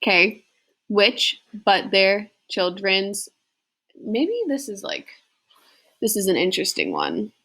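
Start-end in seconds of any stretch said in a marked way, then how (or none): 0.9-3.3 slow, measured sing-song verse reading; slow iambic poetry reading; poem recitation. Acted. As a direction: read it out beat by beat like a classroom recital.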